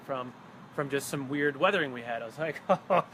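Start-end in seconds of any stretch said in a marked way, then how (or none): 2.7-3.0 excited outburst. Retold or imitated. Guide retells his own excited reaction.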